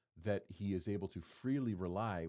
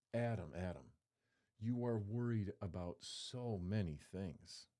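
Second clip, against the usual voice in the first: tender rebuke; 3 dB quieter, slower than usual. Pretend. Jesus speaking to the preacher himself.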